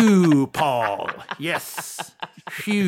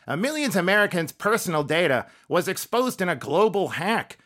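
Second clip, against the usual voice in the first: Jay Leno impression. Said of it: "It's, uh, Jay Leno".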